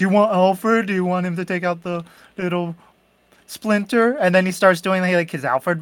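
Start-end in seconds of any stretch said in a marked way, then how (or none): 0.0-4.1 mocking, taunting tone. Retelling how one character taunted another: imitating someone mocking. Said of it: "making fun of him for being like".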